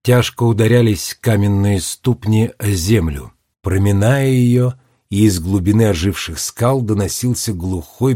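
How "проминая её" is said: usual speaking voice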